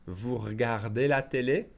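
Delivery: "regardez" said as "r'gardez", end rising; skipped E. Shown as a demonstration. Teacher repeats the natural version, "regardez" as "r'gardez". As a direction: let the first E of "regardez" vanish. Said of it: "we'll skip it naturally".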